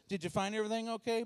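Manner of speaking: rattled off fast like a checkout script; fast, bored cashier patter; quick rote cashier line. Retold or imitated. Cashier greeting a shopper, fast rote patter. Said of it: "but she says".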